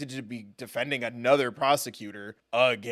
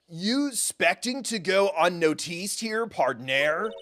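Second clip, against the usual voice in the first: slow drawled cowboy detective; lightly voiced gruff detective; Gumshoe voice; 3 semitones higher, slower than usual. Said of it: "What was my Gumshoe voice?".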